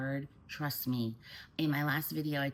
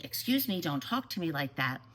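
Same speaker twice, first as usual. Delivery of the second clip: put-on parent bristling at a teen's attitude; offended snap; 2 semitones higher than usual. Shown as a demonstration. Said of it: "So instead of saying".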